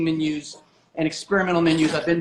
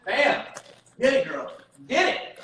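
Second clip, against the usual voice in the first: excited cheer; 6 semitones higher than usual. Real, not acted. Bacon goes into the oven.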